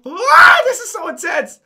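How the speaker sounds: real laughing scream mid-battle; laughing shout. Real, not acted. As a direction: laugh through the panic of the fight. Frantic firefight.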